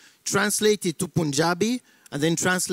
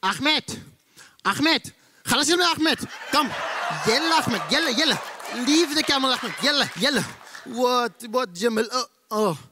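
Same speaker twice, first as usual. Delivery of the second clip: put-on high, urgent calls in Arabic-accented voice; Arab villager calling out; 6 semitones higher than usual. Arab man calling Ahmed as aliens land, acted high and urgent. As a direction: play an Arab man hurrying his friend along. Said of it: "in an Arabic country".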